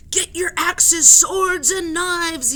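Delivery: high, loud battle call; fierce yell. Acted. Another sailor yells for weapons, high and loud. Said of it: "yelled another".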